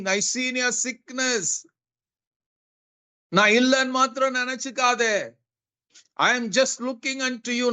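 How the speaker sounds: lifted, unhurried promise to a suffering listener; God speaking tenderly. Acted. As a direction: speak as a loving God who never forgets. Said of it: "God may be telling you".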